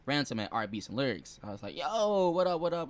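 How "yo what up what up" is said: retold hearty greeting.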